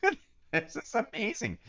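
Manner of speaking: high, breathless wonder; amazed gush. Retold or imitated. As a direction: marvel at the screen. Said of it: "I'm going".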